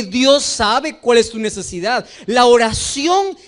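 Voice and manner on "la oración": preaching shout. Real, not acted. Preaching climax.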